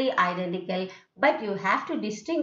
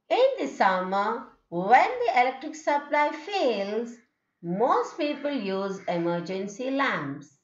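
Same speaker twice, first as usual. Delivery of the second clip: In the summer, when the electric supply fails, most people use emergency lamps, in three tone units. Shown as a demonstration. Teacher dividing a long sentence into tone units. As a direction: pause at each comma, rise on fails. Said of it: "the way how I can divide the tone".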